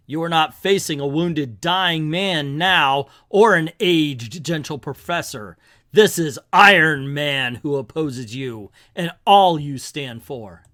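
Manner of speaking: slow, emphatic hero's declaration; mildly commanding hero. Acted. Iron Man confronts Wang Shu, lightly voiced defiance. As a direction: declare it with measured weight.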